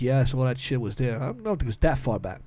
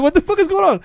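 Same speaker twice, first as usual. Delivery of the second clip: loud, high-pitched imitation of an alarmed cop; imitated shout of disbelief; retold cop's outburst; 14 semitones higher, 6 dB louder than usual. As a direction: demand an answer like a startled cop. Cop breaking up fight, retold.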